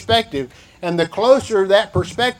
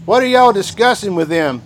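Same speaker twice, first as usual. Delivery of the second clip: Southern y'all; 2 semitones higher, 4 dB louder than usual. Shown as a demonstration. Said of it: "That's 'cause we're in the South".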